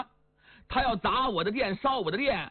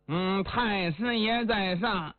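humble kowtow; slower than usual. Acted. Liang kowtowing to his elder.

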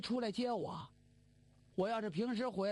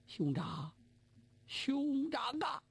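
crying out for his brother; 5 semitones higher, slower than usual. Acted. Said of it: "放声痛哭啊".

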